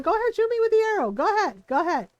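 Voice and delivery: a hint of a smug deer daring you; sassy deer. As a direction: taunt the hunter like a cheeky deer. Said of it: "that deer is sassy".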